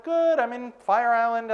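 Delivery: high, sustained mock-casual reply; lightly hammed-up phone chat; retold cheery answer.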